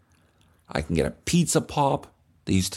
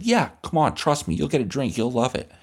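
put-on pushy kid; 3 semitones higher than usual.

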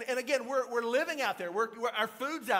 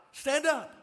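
raised, high, loud command; insistent shout; 7 semitones higher, 7 dB louder than usual. Retold or imitated. Friends to panicking Trey, loud insistent command. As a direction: shout it over someone's panic.

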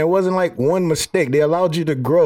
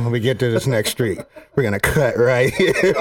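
calmly; 2 semitones lower than usual. Retold or imitated. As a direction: keep it cool like a movie hero. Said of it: "you just said it so calmly".

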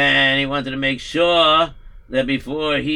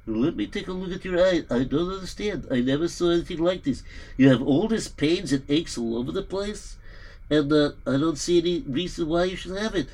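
puzzled doctor. Acted.

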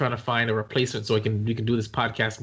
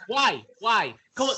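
disgusted whine; 10 semitones higher than usual. Real, not acted. Recoils from gross hangnail.

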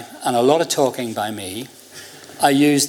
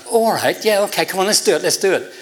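higher, lightly acted eagerness; keen agreement; 6 semitones higher than usual. Man at the stand agrees to help fake a pass, keen. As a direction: retell someone happily giving in to a scheme.

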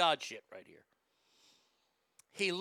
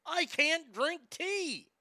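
imitating father-in-law; 10 semitones higher, much slower than usual. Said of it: "And he goes".

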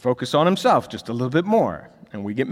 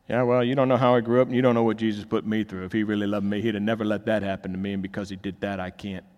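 bitter complaint; 4 semitones lower, faster than usual. Retold or imitated. Voicing a hurt unbeliever.

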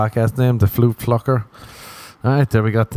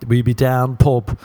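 English pub talk; slower than usual. Retold or imitated. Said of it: "English people love saying shit like that".

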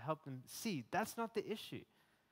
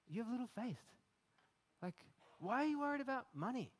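higher, pleading exasperation, shaking them awake; exasperated Jesus; 9 semitones higher than usual. Retold or imitated. Preacher voicing Jesus to a worried listener, higher exasperated plea. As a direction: plead with a worried disciple like a loving, frustrated teacher. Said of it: "imagining Jesus speaking like this to me".

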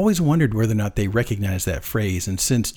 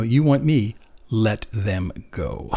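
a slow, measured order with no bargaining; quiet command; much slower than usual. Retold or imitated. Jesus commanding the soldiers, slow quiet order. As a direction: lay down the terms and let them land. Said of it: "he's actually commanding them".

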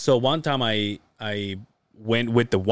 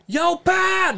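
retold shout. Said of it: "I started screaming".

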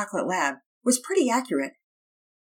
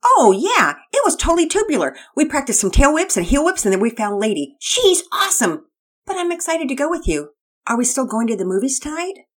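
very high, loud surfer dude shout; a stoked skater boy yelling with delight; Todd the surfer kid; 8 semitones higher, 7 dB louder than usual. Acted. Todd voiced.

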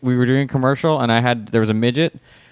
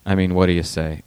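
lower, mildly downcast question; imitating a dejected, low-key director; sad; 4 semitones lower than usual. Director to comic in a lobster costume, mildly sad. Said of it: "he looked so sad".

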